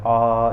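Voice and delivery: आ sustained like a singer's long note; prolonged आ as a pluta vowel; drawn-out vowel. Shown as a demonstration. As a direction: hold आ for a long time. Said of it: "इस तरह उच्चारण करता रहता है".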